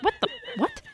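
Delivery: very high, startled squeak; confused squeak. Retold or imitated. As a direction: squeal it in bewilderment. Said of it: "And Baldwin was like".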